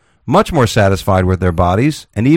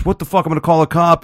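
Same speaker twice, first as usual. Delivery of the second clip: high, indignant threat to call a cop; indignant outburst; 8 semitones higher than usual. Retold or imitated. Slapped stranger threatening to call police, high indignation. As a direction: play the outraged slapped stranger. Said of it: "the guy goes".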